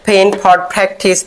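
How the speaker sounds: ফেন, ফর, প্র্যাকটিস with a breathy aspirated p; aspirated p sounds. Shown as a demonstration. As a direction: give ফেন, ফর and প্র্যাকটিস a puff of air on the p. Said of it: "প হবে না, ফ হবে।".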